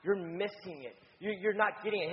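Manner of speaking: understated harsh correction. Retold or imitated. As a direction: scold them without raising your voice. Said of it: "it's a harsh tone".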